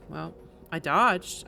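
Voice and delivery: usual speaking voice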